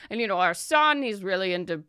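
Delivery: lightly voiced chatty merchant. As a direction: ramble on fondly. Merchant backstory.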